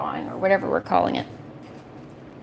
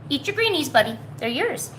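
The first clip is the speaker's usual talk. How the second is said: talking to a dog; 5 semitones higher than usual. Real, not acted. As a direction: coax a pet gently. Encouraging pet to eat.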